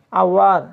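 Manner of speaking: আওয়ার firmly, with a full ao-wa; aowa sound. Shown as a demonstration. Teacher repeating the example after spelling it, ao-wa in আওয়ার. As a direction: model আওয়ার as ao-war, falling at the end. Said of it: "তখন উচ্চারণটা হবে আওয়া".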